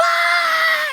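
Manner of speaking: very shrill, very high, drawn-out screaming yell. Retelling how someone kept screaming during a phone call: imitating someone screaming. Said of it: "but he's screaming".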